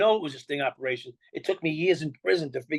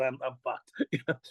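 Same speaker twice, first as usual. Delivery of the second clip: deflated, slumping; 3 semitones lower, 5 dB quieter, much slower than usual. Retold or imitated. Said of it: "your shoulders just slump down and go".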